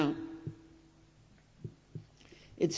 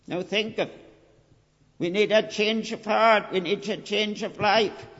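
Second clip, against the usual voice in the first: fervent preaching; 3 dB louder than usual. Acted. Preacher urging his congregation at full force. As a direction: preach it out to hold them back.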